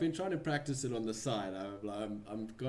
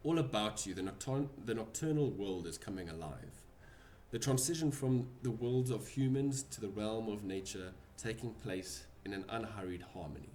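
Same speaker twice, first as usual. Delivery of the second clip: game master scene setting. Acted. DM narrates the scene.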